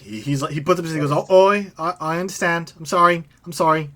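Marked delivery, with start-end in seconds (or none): 1.3-3.9 raised-pitch, hasty backing down; cowed apology. Acted. Recoiling mercenary apologizes to the threatening boss, cowed. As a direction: apologize like someone who wants no trouble.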